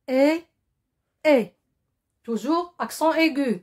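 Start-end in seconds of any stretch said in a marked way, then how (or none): 0.1-1.5 "اي" said alone as a short closed French é. Shown as a demonstration. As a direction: model the isolated sound "اي", closed and separate each time. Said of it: "Un son fermé".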